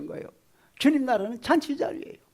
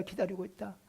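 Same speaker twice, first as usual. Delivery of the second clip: much softer, like an echo; 2 semitones lower, 11 dB quieter than usual. Acted. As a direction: let the repeat fall to a hush.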